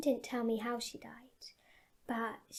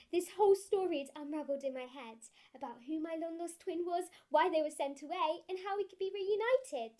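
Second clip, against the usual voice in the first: mounting excitement; 5 semitones higher than usual. Acted. Girl imagining a reunion with her long-lost twin, mounting excitement. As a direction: pitch climbing to an excited peak.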